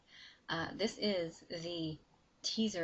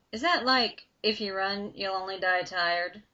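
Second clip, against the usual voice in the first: dark southern drawl; 9 dB louder than usual. Acted. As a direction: toss the line off like a wisecrack with a drawl. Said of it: "a dark voice with a heavy southern drawl".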